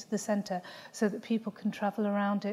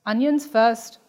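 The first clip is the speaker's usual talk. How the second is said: sharp, louder mother's command; curt order; 3 semitones higher, 12 dB louder, slower than usual. Acted. Mother correcting her daughter's chore order, sharply louder. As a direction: snap it out as a firm correction.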